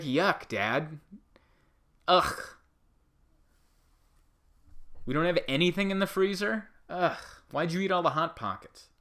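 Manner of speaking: put-on high, complaining children's voice; whiny kids. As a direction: whine at dad about the freezer. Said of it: "his kids are gonna be like".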